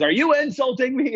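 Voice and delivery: mild mock ex-con squaring up; mock confrontation. Ex-con gets in the ticket lady's face, mock challenging.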